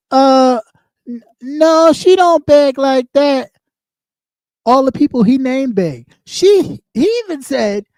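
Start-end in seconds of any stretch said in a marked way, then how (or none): 0.1-3.5 mock quote. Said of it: "you, you said".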